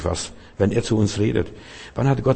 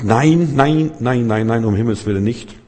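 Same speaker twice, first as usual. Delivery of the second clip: refusing flesh. Acted. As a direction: protest in alarm, fading out. (das Fleisch wehrt sich, lauter und höher, ebbt ab)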